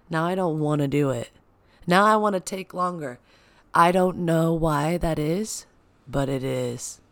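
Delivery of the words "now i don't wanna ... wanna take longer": stubborn. Retold or imitated. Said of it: "I'm like".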